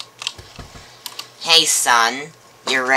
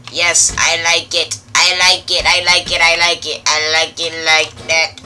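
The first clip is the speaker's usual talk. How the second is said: excited; 2 semitones higher, 7 dB louder than usual. Acted. Repeating delight over the kitchen.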